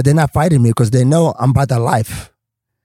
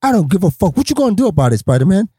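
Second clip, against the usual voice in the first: higher-pitched defiant challenge; retold dare; 5 semitones higher than usual. Newcomer squares up to Spider-Man, daring. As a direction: dare him to act, as in a retold standoff.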